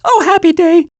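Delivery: ordinary delivery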